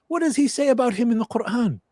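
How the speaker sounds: imitating the sheikh. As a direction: ask like a gently probing teacher. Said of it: "And he goes".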